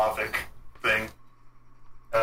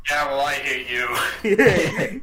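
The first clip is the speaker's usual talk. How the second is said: playful mock spite; 2 semitones higher, 3 dB louder, much slower than usual. Playful comeback.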